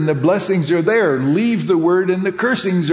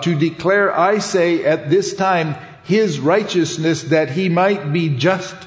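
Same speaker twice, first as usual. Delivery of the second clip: measured, solemn Bible reading; scripture reading. Acted. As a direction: read the old text with a steady, formal cadence. Reads Romans aloud.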